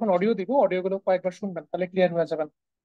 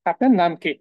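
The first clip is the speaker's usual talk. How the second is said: emphatic gloss; 7 dB louder than usual. Shown as a demonstration. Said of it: "okay".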